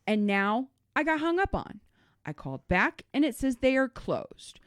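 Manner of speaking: measured and firm, slowed, restrained annoyance; firm, a little ticked off. Retold or imitated. To the cosmetics lady, firm and a little ticked off. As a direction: keep it controlled but let the irritation show. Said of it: "this is my exact tone with her".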